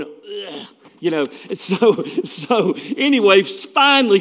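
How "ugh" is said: soft, wordless "ugh" of discomfort. Retold or imitated. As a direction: imitate a quiet groan, much softer. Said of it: "and I'm going".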